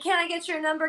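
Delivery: a hint of Italian machismo; macho pickup impression. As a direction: imitate a macho little flirt. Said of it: "He sounded the exact same way".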